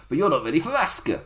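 put-on jokey Japanese accent, a bit quick; playful fake Japanese accent; mock Japanese accent. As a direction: ham up a Japanese accent on Asuka's line. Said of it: "With my amazing Japanese accent".

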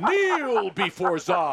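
slow, drawn-out Zod-style command; slow theatrical villain menace. Pretend. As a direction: loom over him, dragging each word. Repeats Zod line slower.

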